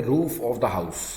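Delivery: slow, even dictation pace. Shown as a demonstration. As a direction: say it slowly so they can write. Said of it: "तो क्या बोलेंगे". (धीरे धीरे लिखवाना)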